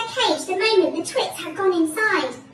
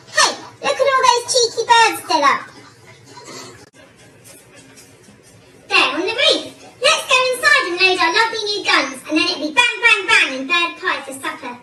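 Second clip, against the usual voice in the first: loud, raised-pitch gloat; gleeful gloating; 3 semitones higher, 7 dB louder than usual. Acted. Twit spotting birds to shoot for pie, gleeful gloating. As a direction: crow over the coming hunt.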